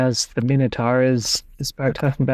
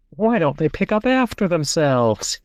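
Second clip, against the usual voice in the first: put-on old man voice; 4 semitones higher than usual. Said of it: "sounding like an old man".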